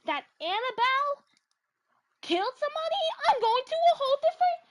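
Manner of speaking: high and loud, frantic; panicked outburst. Real, not acted. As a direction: freak out and flee. Panicked escape vow.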